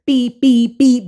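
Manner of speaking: beeping nonsense syllables standing in for foreign speech; imitating speech she can't understand with beeps; mock Haitian gibberish. Recapping the mama's Haitian rant as playful beeps. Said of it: "That's how it sounded".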